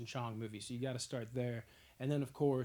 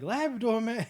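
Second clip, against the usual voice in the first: Labrador blurted much higher and louder; mock stoner; 8 semitones higher, 8 dB louder than usual. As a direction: squeal it like a stoned buddy. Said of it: "He's like".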